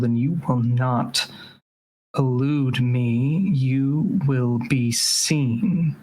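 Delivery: menacing Mal. Acted. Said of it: "Mal will say".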